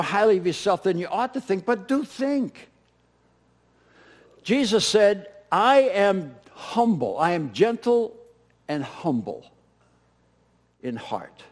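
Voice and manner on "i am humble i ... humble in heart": solemn quote. Acted. Quoting Jesus solemnly.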